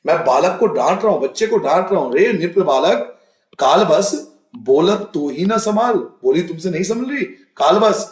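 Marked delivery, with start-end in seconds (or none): 2.1-5.9 stern scolding verse, raised a little; mock angry scolding. Shown as a demonstration. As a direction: scold the child angrily. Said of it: "मैं गुस्से में बोल रहा हूं". (गुस्से में डांटते हुए पाठ)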